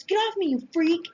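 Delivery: put-on high, loud boy's yell; angry yell. A narrator's reading. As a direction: shove the words at her. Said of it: "he yells".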